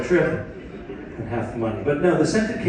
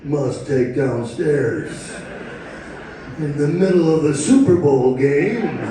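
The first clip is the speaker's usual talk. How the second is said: hypnotized husband. Retold or imitated. Husband's robotic obedient inner voice.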